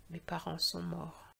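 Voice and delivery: hushed, understated crying line; tearful. Acted. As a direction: say it quietly through tears. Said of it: "Des larmes se sont mises à couler".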